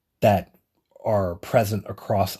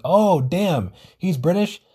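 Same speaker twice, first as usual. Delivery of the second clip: higher-pitched disbelief, rising into a question; surprised reaction; 7 semitones higher, slower than usual. Retold or imitated. Reacting to the actor's real accent, surprised. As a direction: act out a startled discovery.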